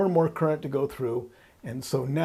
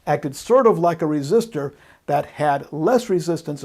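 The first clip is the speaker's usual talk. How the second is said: "sort of" pressed a little louder as a hedge; stress on sort of; 4 dB louder than usual. Shown as a demonstration. Teacher repeating the hedge with "sort of" stressed. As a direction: give "sort of" a clear, louder push. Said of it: "I do emphasize sort of".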